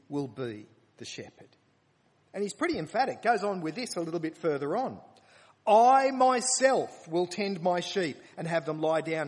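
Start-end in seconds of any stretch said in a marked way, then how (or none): 5.7-9.3 loud, proclaiming scripture reading; preaching at full force. Acted. Preacher declaiming God's promise to the congregation, loud. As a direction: proclaim it like a solemn vow.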